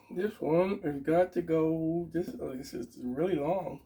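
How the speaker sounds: talking around a pencil in the mouth; pen in teeth. Real, not acted. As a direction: speak with a pencil clenched in your teeth. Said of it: "So it sounded weird".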